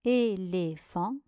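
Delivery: "éléphant" read back with its syllables apart; measured, separated syllables in "éléphant". Shown as a demonstration. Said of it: "Voici la correction". (« éléphant » relu syllabe par syllabe)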